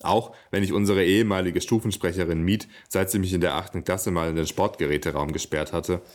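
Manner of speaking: even-paced reading with livelier dialogue; measured literary read-aloud; story narration. A narrator's reading. Reads next chapter aloud.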